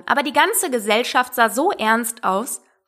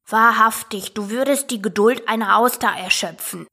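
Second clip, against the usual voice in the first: lightly voiced pert young toad; somewhat cheeky. A narrator's reading. Young toad fed up with mother's lecture, cheekily. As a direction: retort with mild exasperation. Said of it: "etwas naseweiß".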